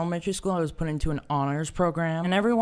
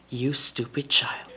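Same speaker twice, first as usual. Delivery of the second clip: quiet, slow disdain; muttered insult; 4 semitones lower, 5 dB quieter, slower than usual. Retold or imitated. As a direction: mutter contemptuously. Teacher reaction, muttered.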